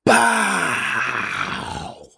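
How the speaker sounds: high, slow, loud mocking hype voice; mocking hype wrestler. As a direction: overblown hype-man shout. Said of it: "he's saying".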